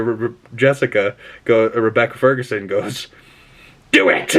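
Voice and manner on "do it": put-on evil overlord croak; Palpatine. Rebecca Ferguson's character commanding, hammed-up Palpatine-style villain voice. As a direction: imitate a sinister master giving an order. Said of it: "fucking Palpatine".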